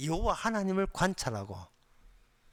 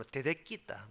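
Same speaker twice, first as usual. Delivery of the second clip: soft, lower Gyeongsang dialect phrase; 3 semitones lower, 5 dB quieter than usual. Shown as a demonstration. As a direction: quote a Gyeongsang dialect saying, quietly. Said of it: "경상도 말로".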